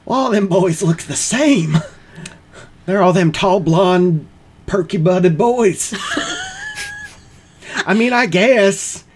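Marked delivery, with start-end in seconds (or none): 0.0-5.9 drawling, higher Southern monster; sweet-talking Southern charmer; Southern Mothman voice. Acted.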